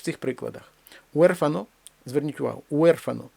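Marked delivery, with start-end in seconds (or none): 1.1-1.7 Уерфано opening on one gliding уе; gliding diphthong. Shown as a demonstration. Teacher gives an example, уе as one sound. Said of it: "ніби це перехідний звук уе". 2.7-3.2 уерфано with уе as one syllable; gliding diphthong. Shown as a demonstration. Teacher asks for attention, diphthong kept whole. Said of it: "ніби це перехідний звук уе".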